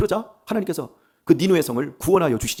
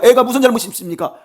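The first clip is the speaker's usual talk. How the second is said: the same question pushed higher and louder; desperate plea, building; 9 semitones higher, 10 dB louder than usual. Acted. David pleading with God for his child, the loudest outcry. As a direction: cry it out harder this time, pleading with God. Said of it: "막 간절하게 울면서".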